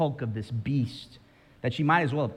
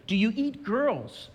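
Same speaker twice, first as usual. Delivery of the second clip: put-on high, slow small-girl question; timid girl Jill; 9 semitones higher than usual. Preacher voicing Jill asking the lion, high and timid. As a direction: ask it like a frightened little girl. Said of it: "she asks".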